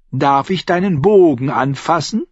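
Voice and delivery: high-pitched mock girl voice; imitating a smitten girl. Singer mimicking a girl fawning over the archer, teasing. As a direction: mimic her admiring request. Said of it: "habe ich sie ihn fragen gehört".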